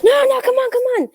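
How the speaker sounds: high-pitched mock pleading of eager friends; high, insistent retold urging; coaxing friends. Friends coaxing her onto the ride.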